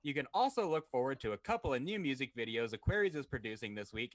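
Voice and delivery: upbeat radio ad read. Acted. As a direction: read it like a sponsor spot. Reads a sponsor ad.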